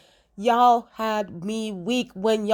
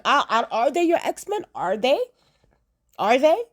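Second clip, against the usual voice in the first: sarcastic; 3 semitones higher than usual. Real, not acted. Mocking Professor X rhetorically.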